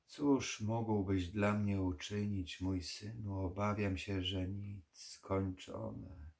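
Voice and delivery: slow, tired voice of a dying vampire; weary old vampire. Acted. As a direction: let each word sink, resigned.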